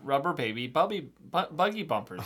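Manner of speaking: stumbling on buggy, restarting; tongue twister slip-up. Shown as a demonstration. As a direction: trip over the word buggy. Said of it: "I'm starting to get a little slipped up".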